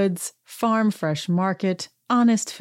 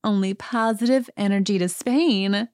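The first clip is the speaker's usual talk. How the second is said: imitating Kyle; 4 semitones higher than usual. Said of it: "And she says".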